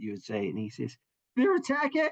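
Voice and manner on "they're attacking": very high, effeminate shout. Voicing a guard on the gatehouse who shouts a warning: effeminate shouting guard. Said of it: "his voice is a little bit effeminate".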